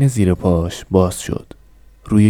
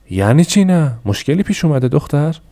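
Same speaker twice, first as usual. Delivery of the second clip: father yells; 7 semitones higher than usual. A narrator's reading. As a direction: shout at the daughter in disbelief. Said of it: "داد زد".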